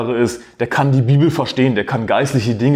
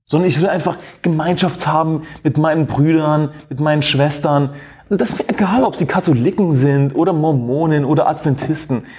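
mocking so-called Christian; 3 semitones higher than usual. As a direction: parody the pious talk of lukewarm believers, pitched up. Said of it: "sogenannte Christen daher und sagen".

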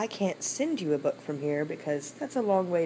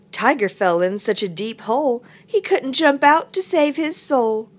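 lilting read-aloud climbing higher; story narration; 7 semitones higher, 8 dB louder than usual. Acted. Teacher reading picture book to children, animated storytelling. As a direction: tell it to small children, building up.

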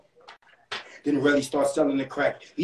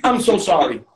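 crying; 2 semitones higher than usual. Acted. Relly's mother crying over her son, acted sobbing. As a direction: play a wailing, sorry mother. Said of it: "Relly mother's crying now".

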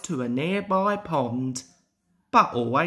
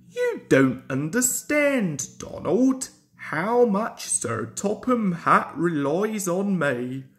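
earnest little engine voice; a fussy, proud engine; Duck's voice. Acted. Duck speaking to Donald.

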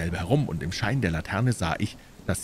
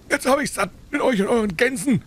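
laut und hoch losschimpfen; wütendes Schreien; 6 dB louder than usual. A narrator's reading. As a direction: genervter Händler, dem der Kragen platzt. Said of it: "schrie er dabei". (zorniges Geschrei)

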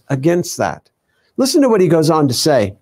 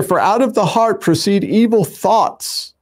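scripture reading; 4 semitones higher than usual. Acted. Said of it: "It says right here".

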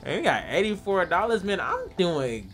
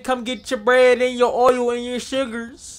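calling out wares; 6 semitones higher than usual. Acted. Calling out to shoppers.

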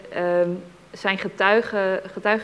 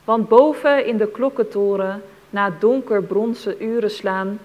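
measured, deliberate verse reading; poem recitation. Acted. Reader describing people hearing the carillon, measured poem recitation. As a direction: recite it carefully, phrase by phrase.

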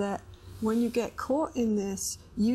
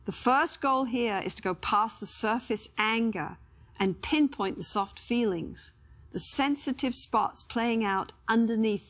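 measured, scripted voice-over read; instructional narration. Acted. Therapist introducing the second conversation's goals to viewers, measured narration. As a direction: narrate clearly with pauses between phrases.

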